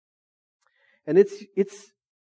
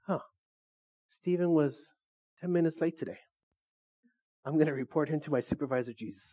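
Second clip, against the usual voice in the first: hushed smug tattling, softer; snooty tattletale; 8 dB quieter than usual. Retold or imitated. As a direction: tell on him in a smug whisper-like murmur. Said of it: "You're like".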